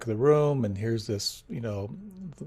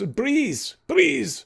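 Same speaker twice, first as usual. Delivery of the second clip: much higher, louder drawn-out breathe; commanding teacher; 13 semitones higher, 5 dB louder than usual. Retold or imitated. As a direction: call out breathe like a strict instructor. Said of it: "she goes".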